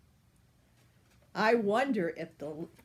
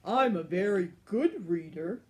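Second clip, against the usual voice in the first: louder, proud dragon boast; boastful dragon; 5 dB louder than usual. Acted. The dragon boasts to the giant, louder and proud. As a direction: boast like a grand old dragon.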